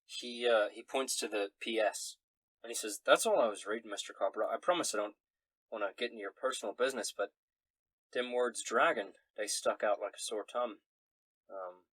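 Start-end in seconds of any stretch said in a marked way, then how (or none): 3.0-10.8 lightly voiced apologetic country fellow; Quinn, a folksy snoop. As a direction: explain yourself sheepishly, in a lightly folksy voice. Game master plays Quinn.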